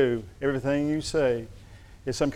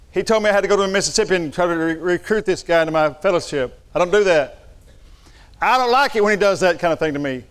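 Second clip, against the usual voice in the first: retold fuming rant; 4 semitones higher, 3 dB louder, faster than usual. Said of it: "I fumed around the house".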